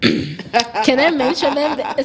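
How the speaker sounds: breaking up with laughter; laughing. Real, not acted. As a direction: ask it through a slow, amused laugh. Amused at being asked for names.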